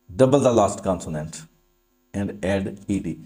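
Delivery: very slow, word by word; slow dictation. Shown as a demonstration. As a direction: spell out the rule for copying. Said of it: "dictating rule slowly". (धीमे-धीमे नियम लिखवाना)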